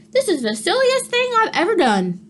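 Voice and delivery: a hint of a fussy cow; Cow's voice.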